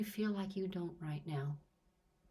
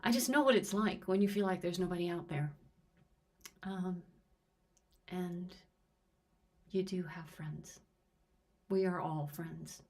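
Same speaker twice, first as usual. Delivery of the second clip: teary voice. Real, not acted. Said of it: "I'm getting teary".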